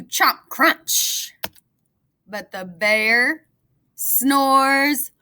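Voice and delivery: put-on lively read-aloud for kids; storybook narration. A narrator's reading. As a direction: tell it like a bedtime story. Reads picture book aloud.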